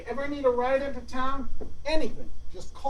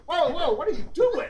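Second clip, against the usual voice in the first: laughing; 5 semitones higher than usual. Acted. Startled, laughing.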